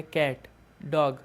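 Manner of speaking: कैट and डॉग said slowly, each as one single clipped beat; one syllable demo. Shown as a demonstration. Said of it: "एक ही बार में निकल जा रहा है".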